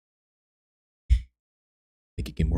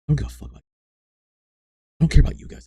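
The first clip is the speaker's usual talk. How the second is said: mock yell; 10 semitones higher, 5 dB louder, much faster than usual. Mock rant at chat, joking.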